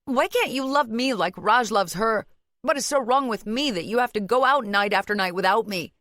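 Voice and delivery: hurt accusation. A narrator's reading. Wife demanding why husband leaves her, hurt and accusing. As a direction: plead and accuse at once.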